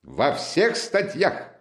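high, emphatic, relishing approval; drawn-out, delighted insistence; undeterred Razumikhin. A narrator's reading. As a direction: agree heartily with an unspoken answer. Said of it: "как будто поддакивая полученному ответу".

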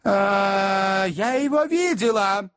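high-pitched lady's voice; cornered lady, pitched well up; hesitant lady. A narrator's reading. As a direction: answer reluctantly in a high voice. Lady answers her interrogator.

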